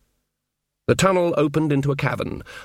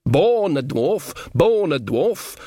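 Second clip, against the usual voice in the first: slow, rueful repetition; rueful dwarf; 4 semitones higher, much slower than usual. Acted. Dwarf confessing his fear of caves, rueful. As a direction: admit it twice, resigned.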